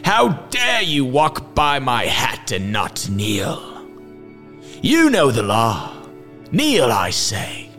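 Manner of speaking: slow, high, indignant demand; outraged villain. A narrator's reading. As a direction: scold like an affronted tyrant. Villain rages at the hero.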